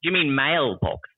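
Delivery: slowly saying mailbox with a clear I L sound; American mailbox. Retold or imitated. Kansas friend correcting her, slow and exaggerated. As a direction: spell out the L in mailbox. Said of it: "really pronounced out the I L part".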